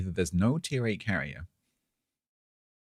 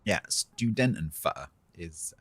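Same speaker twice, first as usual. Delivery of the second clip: put-on slow London accent on student and fur; slower than usual. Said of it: "extremely fun to say in a London accent".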